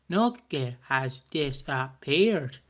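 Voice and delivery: slow, low robotic narrator voice. Shown as a demonstration. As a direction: drag it out like an AI narrator. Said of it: "You have to do, like, the A I voices".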